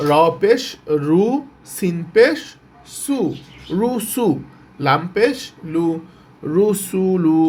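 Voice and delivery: পেশ rising, syllables then joined as রু সু লু; joined-letter spelling drill. Shown as a demonstration. Teacher teaching joined letters to learners, measured spelling drill. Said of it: "কিভাবে উচ্চারণ হবে".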